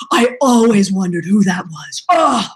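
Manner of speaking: lightly voiced elated older colleague; imitated delighted greeting.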